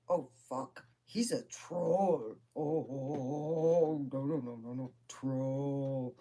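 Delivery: drawn-out, dismayed groaning about a troll; appalled uncle. Retold or imitated. Uncle on the phone reporting a troll, appalled. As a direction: lightly voice a horrified uncle, slowly.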